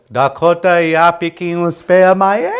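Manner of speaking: high, loud, climbing question. Retold or imitated. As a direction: lift the whole phrase, climbing at "amaye?". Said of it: "it goes higher".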